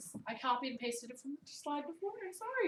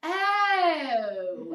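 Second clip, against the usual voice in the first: loud, higher stretched oh; imitating a kid's twisted vowel; daughter's exaggerated Baltimore oh; child's Baltimore oh; 5 semitones higher, 9 dB louder than usual. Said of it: "my seven-year-old came home ... and said".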